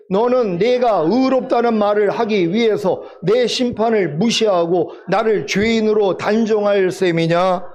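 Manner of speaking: slow, measured recitation for unison reading; scripture reading. Acted. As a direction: lead the congregation word by word, unhurried. (천천히 또박또박 함께 읽는 성경 봉독)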